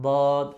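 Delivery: "দদ" loud, tongue tip touching the palate; wrong Dad, tongue tip. Shown as a demonstration. Teacher showing what not to do, "দদ" from tongue tip. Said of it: "এই আগাটা যদি উপরে এই তালুর সঙ্গে লাগিয়ে দিই".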